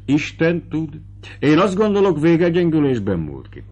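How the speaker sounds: a lightly voiced fat old Slovak steward, pondering; light voicing of a deferential estate steward. A narrator's reading. Steward explains the ox's death.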